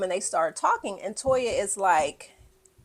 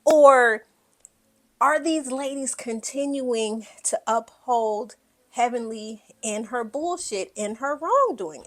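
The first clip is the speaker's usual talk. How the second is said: exasperated disbelief; 2 semitones higher, 5 dB louder, slower than usual. Retold or imitated. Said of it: "Contessa is literally like".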